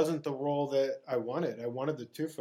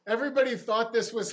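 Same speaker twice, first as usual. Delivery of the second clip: laughing; 9 semitones higher, 5 dB louder than usual. Real, not acted. Telling the hosts how the room laughed, laughing himself. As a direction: still laughing as he speaks.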